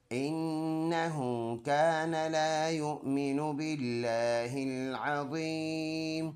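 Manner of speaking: melodic tajweed chant; Quran recitation. Shown as a demonstration. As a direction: recite the verse in a drawn-out tune. Recites the verse before spelling. (Quran की तिलावत के अंदाज़ में)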